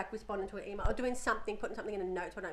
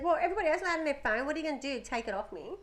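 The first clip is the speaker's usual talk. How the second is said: put-on defiant teen; 5 semitones higher, faster than usual. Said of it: "she said".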